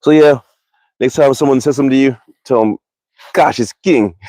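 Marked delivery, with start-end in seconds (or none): 3.3-4.2 put-on Jamaican accent. Shown as a demonstration. Telling viewers what to answer, in a Jamaican accent. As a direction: say it like a Jamaican guy, playfully imitated. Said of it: "It's with an accent".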